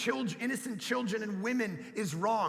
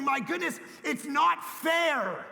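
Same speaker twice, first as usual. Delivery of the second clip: put-on kid's whine; 5 semitones higher, slower than usual. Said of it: "they started saying".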